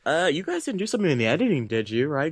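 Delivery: quick, nervous mock query; imitated actor fishing for reassurance; worried actor. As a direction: check in hurriedly, starting high. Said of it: "and just like".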